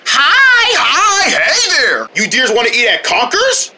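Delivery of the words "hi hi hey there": excited greeting. Acted. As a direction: call out a thrilled hello.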